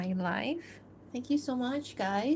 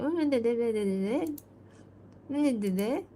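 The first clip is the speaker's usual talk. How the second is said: hummed da-da babble, pitched up; wordless mock dialogue; 4 semitones higher than usual. Animator stands in for her dialogue, playful wordless babble. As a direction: babble a line without words.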